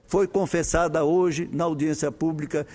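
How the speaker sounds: measured oratory with emphatic phrase openings and falling closes; formal parliamentary speech. Real, not acted. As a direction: read out firmly from the rostrum, each phrase projected. Reads a prepared Senate speech.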